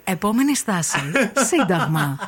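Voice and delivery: lightly voiced metro announcer; metro announcement. Radio host acting out a listener's requested recording, metro announcer. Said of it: "να μου ηχογραφήσεις αυτό που λέει".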